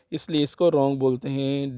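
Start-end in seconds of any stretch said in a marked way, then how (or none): 0.7-1.0 "रॉन्ग" starting straight on the R; silent W. Shown as a demonstration. Teacher showing learners the word, "रॉन्ग" with silent W. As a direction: say "रॉन्ग" with no W sound. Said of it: "W की आवाज़ नहीं".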